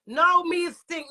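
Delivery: fired-up statement of fact; loud, slow declaration. Real, not acted. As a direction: spell it out slowly to the critic. Angry rant at critic.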